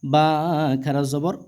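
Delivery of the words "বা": long, steadily held vowel; drawn-out vowel. Shown as a demonstration. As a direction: stretch the vowel out evenly. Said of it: "একালিফ পরিমাণ টেনে পড়তে হয়". (টেনে পড়া, লম্বা স্বর)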